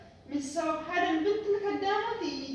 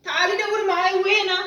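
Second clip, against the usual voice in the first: loud scolding demand; angry call; 2 semitones higher, 9 dB louder than usual. Acted. Madam yells at the maid to help find her phone, loud and angry. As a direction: bark at the maid to come search.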